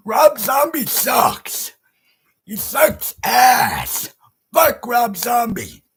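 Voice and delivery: slow, loud, emphatic contempt; angry rant. Real, not acted. Fan condemning a singer to viewers, angry and emphatic. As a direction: hammer each word out in disgust.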